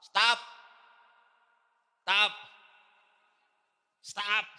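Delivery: sharp loud stop; crowd yelling stop. Acted. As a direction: shut the beggar down. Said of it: "many people told him to stop".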